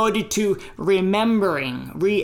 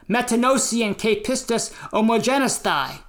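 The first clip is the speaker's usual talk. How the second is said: Greek read in an American English accent; 2 semitones higher than usual. Shown as a demonstration. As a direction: Ancient Greek with American vowels. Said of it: "my American English Greek accent".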